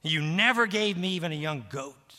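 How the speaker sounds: a loud, resentful complaint from the elder son; bitter, angry. Acted. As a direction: throw the grievance back at the father, bitter. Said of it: "Bitter, angry".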